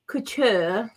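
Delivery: "couture" drawn out as "koo-tuh"; affected couture. Shown as a demonstration. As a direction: say "couture" slowly, dropping the final r. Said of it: "I'm gonna say it like that".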